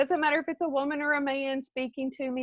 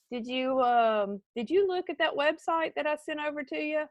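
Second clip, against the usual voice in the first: unexcited follow-up; 3 semitones higher than usual. Shown as a demonstration. Coach showing the bad unexcited way to ask customers. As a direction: ask it timidly with no energy. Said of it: "You don't sound excited".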